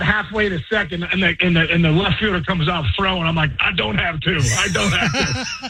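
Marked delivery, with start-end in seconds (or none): 4.4-5.7 slow, laughing through the words; laughing dismay. Retold or imitated. Runner laughing at his own mistake to the host, slow laughing dismay. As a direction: laugh at your own doom, slowly. Realizing he'll be thrown out.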